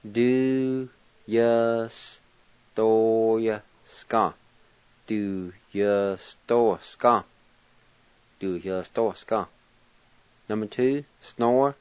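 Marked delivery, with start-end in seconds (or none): 0.0-4.3 "Du, yus, do, ya, ska" with the A and Y dropped; silent A with Y. Shown as a demonstration. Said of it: "like this". 5.1-9.5 "Du, yus, do, ska" repeated in practice; silent A with Y. Shown as a demonstration. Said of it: "like this".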